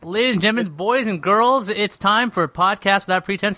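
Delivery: high announcer-style opening; booming kids show opener. Pretend. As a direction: hype it up like a ringmaster. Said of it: "the show that doesn't have an intro like this".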